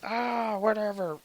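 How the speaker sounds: mock nonchalant. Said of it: "That's what he says".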